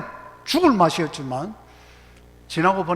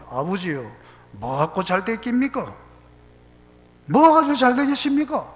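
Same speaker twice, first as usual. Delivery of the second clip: imitated Gyeongsang child questioning father, building louder; Gyeongsang dialect; 4 semitones higher, 6 dB louder than usual. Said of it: "경상도 말로 이래".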